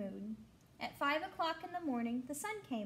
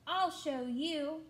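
slow, stretched mock threat; grouchy ladybug voice; 3 semitones higher, much slower than usual. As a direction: drag it out like a sulky bug. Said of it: "screeched the grouchy ladybug".

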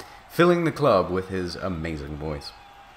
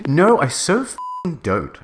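slow, higher, emphatic mock yell; mock shout; 7 semitones higher, 4 dB louder, slower than usual. A narrator's reading. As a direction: deny it hard, drawn out. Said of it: "I shouted".

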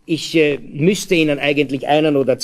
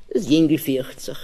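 ordinary delivery

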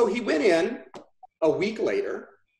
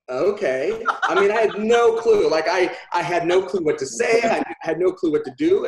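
laughing admission; 5 dB louder than usual. Real, not acted. Admitting he was clueless on the call.

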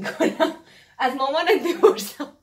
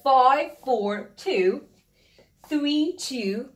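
slow, each digit apart; much slower than usual. Shown as a demonstration. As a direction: read the digits singly. (رقم به رقم، آهسته)

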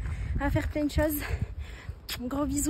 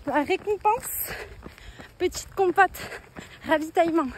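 while running. Real, not acted. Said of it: "parler en courant".

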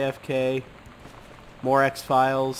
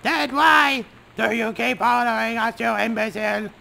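yelled back; 8 semitones higher than usual. Acted. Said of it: "Captain Allegra yelled back".

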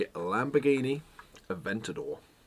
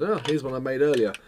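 mock TV presenter; 2 semitones higher than usual. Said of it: "done a Blue Peter on you".

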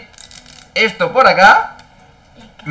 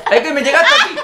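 laughing; 9 semitones higher, faster than usual. Real, not acted. Coughing after fizzy powder.

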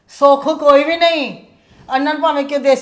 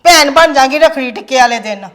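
loud scolding; 2 semitones higher, 7 dB louder than usual. Acted. Mother scolds about the rakhi.

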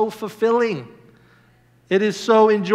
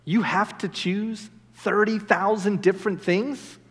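softer, incredulous question; daunted questioning; 5 dB quieter than usual. Acted. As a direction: balk at the sheer number. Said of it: "some people will say".

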